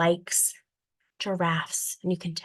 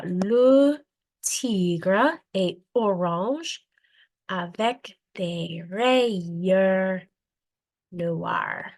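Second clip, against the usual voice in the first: very slow, clear French reading; slow French read-aloud; 3 dB louder, much slower than usual. Shown as a demonstration. Teacher reads French to students, very slowly. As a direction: read it word by word for beginners. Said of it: "I would read through it".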